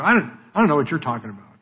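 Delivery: quick, stumbling brush-off; evasive dodge. Acted. Peter dodging the servant girl, rapid evasive denial. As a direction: hurry past the question. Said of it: "He just dodges the question".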